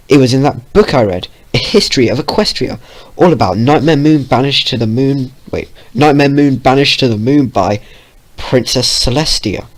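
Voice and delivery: excited. Acted. Vio recalling excitedly.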